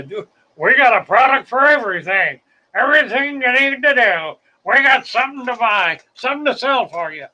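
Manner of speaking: hammed-up corporate huckster; mock salesman. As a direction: pitch every product like a pushy seller. Mock corporate product pitch.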